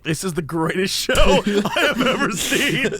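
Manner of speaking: giggling through the words; laughing delight. Real, not acted. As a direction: laugh while you rave about it. Laughing at the show.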